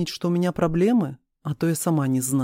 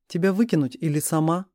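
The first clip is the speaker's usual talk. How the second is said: ordinary delivery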